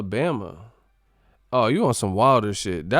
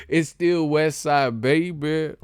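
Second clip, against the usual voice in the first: proud shoutout; 5 semitones higher, 4 dB louder, slower than usual. Real, not acted. Shoutout to the West Coast.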